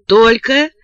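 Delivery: reading a notice out, item by item; reading aloud. A narrator's reading. Father reads the price list at the window, reading aloud. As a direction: read the small print aloud. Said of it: "прочитал отец".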